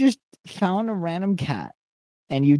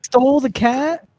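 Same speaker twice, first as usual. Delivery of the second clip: shocked question; 8 semitones higher, 4 dB louder than usual. Real, not acted. Reacting to cat being taken.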